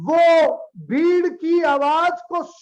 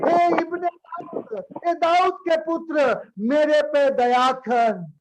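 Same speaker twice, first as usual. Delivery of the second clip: mildly raised plea of a blind beggar; imitated calling out. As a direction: call out for mercy, slowing at the end. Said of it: "उसने जोर से आवाज दी". (अंधे भिखारी जैसी हल्की पुकार)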